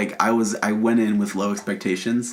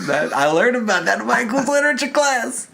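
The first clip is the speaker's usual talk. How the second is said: very high, squealed protest; mock outrage; 12 semitones higher than usual. Co-host arguing English aren't a race, squealed mock outrage. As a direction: shriek it in pretend indignation.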